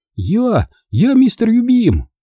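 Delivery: very high, thin little shout. A boy whose dog was hurt cries out in a thin voice to a man on the stairs. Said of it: "тоненько выкрикнул Бенджи".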